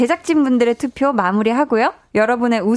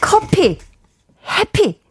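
hyped rhyme reading; 8 semitones higher, slower than usual. Acted.

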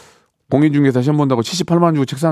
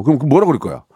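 normal talking voice

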